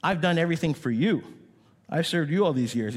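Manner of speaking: a hint of the bitter son; older son complaining to father, mild indignation; resentful older brother. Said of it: "It's as if he's saying".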